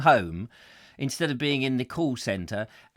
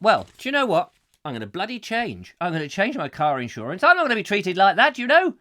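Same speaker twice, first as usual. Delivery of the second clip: retold indignant rant; 2 semitones higher, 5 dB louder than usual. Retells his angry outburst.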